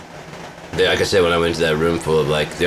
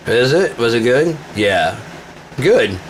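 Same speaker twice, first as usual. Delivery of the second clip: smug taunt; 6 semitones higher, slower than usual. Retold or imitated. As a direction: gloat over his compliment. Taunting exchange with troll.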